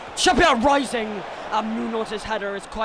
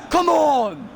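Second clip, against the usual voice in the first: cheer; 4 semitones higher, 5 dB louder than usual. Real, not acted. Celebrating the goal.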